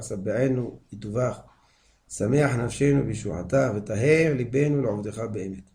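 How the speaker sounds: measured, phrase-by-phrase prayer reading; Hebrew prayer recitation. Acted. Rabbi reading the whole prayer before explaining, measured recitation.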